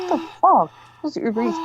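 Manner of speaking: very high, puzzled the-fuck; baffled. Retold or imitated. Looking at two breakfast platters, baffled. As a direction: squeak of disbelief. Confused again.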